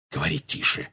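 high, soft begging; hushed plea. A narrator's reading. Lupin begging James to keep it down, pleading. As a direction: plead under your breath. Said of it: "взмолился Люпин".

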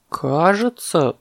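drawn-out, remembering as it comes; elephant calf recalling. Acted. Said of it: "вспомнил слонёнок".

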